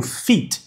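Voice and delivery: "feet" with a tense ee; long-i pronunciation. Shown as a demonstration. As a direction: say "feet" with Portuguese i. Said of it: "Letra E".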